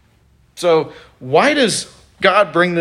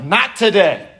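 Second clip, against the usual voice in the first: firm God; 3 semitones higher than usual. Retold or imitated. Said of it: "God has just been like".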